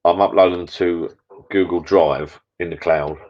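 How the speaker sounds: slow, deliberate, mock-professional delivery; professional-sounding. Shown as a demonstration. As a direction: read it like a corporate announcement, slowly. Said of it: "I sound so professional".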